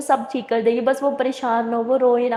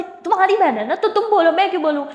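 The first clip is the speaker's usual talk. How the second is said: higher, cheeky, ending in a laugh; teasing; 6 semitones higher than usual. Acted. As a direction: needle her sister playfully. Teasing refusal to speak.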